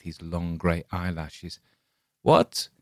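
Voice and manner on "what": high, leering peddler cry; a sly old hawker's sudden squawk; hoarse peddler. A narrator's reading. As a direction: jump up high, grinning and creepy. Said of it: "said in a hoarse voice, screwing up his wide mouth into a hideous smile".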